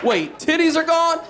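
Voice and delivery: high, loud shocked shout. Retold or imitated. Sleeper shouting back at the bad news, shocked. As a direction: yell the question in disbelief. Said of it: "reply in bit".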